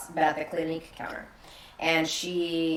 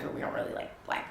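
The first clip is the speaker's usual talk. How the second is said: quick hushed aside, voice dropped to a whisper; mock whisper; 10 dB quieter, faster than usual. Retelling a family's hushed private attitude, quick mock whisper. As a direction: let it slip out fast, barely voiced.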